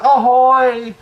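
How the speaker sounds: high, drawn-out call from below; yelled pirate hail. A narrator's reading. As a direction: call up to the fort, pitched high. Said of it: "heard Melissa call out".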